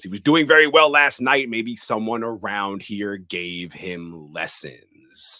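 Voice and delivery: mock annoyed yell, loud at the start; retold exasperated retort; Loomis's annoyed yell. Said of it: "Annoyed, Loomis yells".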